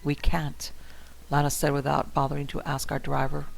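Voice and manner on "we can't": hushed and tense. Acted. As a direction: breathe it out urgently. Tense warning in the car.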